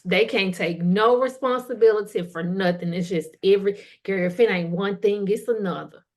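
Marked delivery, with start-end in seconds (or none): 2.9-6.0 sorry Susan voice. Retold or imitated. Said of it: "sorry Susans ... something pitiful".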